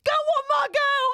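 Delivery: loud, high Cockney cheer; imitated Cockney yell of encouragement; old school Cockney. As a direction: urge her on like a proud Cockney husband. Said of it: "old school Cockney".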